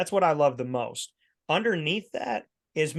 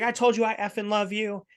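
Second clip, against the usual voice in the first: mock scream; 6 semitones higher than usual. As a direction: imitate an ex swearing her love, half-yelled. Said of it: "She's screaming at me, swearing at me".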